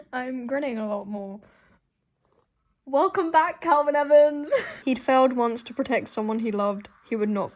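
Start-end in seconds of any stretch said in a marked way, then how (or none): 2.8-4.5 higher, louder joyful welcome; loud delighted cheer; excited cheer. Real, not acted. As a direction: cheer him back like a returning hero. Cheering a character's return.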